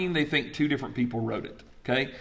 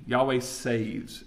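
slow emphasis; 3 dB quieter, much slower than usual. Shown as a demonstration. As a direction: slowly stress Yahweh saves. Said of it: "the word means".

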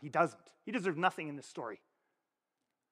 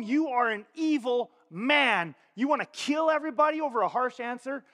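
acted accusation; 4 semitones higher, 5 dB louder than usual. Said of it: "If she told him".

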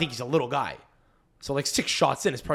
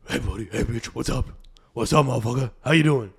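mock macho bro talk; bro greeting; 2 semitones lower, 4 dB louder than usual. Shown as a demonstration. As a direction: talk to the dog like he's your bro. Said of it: "pretend like he's your bro".

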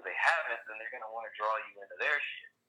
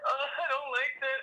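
higher, louder put-on complaint; mock whiny voice; 3 dB louder than usual. Acting out a petty reaction to a friend, mock whine. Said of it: "I'm like".

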